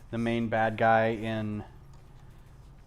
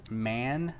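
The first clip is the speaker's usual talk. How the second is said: very slow, drawn-out puzzled replicant question; imitating Rutger Hauer; much slower than usual. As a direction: stretch out "Police" very slowly, wondering at the word. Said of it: "And Rutger Hauer says".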